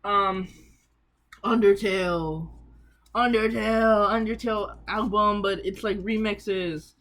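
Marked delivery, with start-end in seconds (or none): 1.4-2.5 slow announcement. Shown as a demonstration. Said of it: "announcing next album". 3.1-4.1 louder announcement. Shown as a demonstration. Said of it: "announcing next album".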